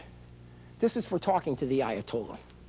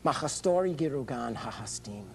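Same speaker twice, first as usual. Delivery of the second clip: mock Farsi; 2 semitones lower than usual. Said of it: "I would say to him".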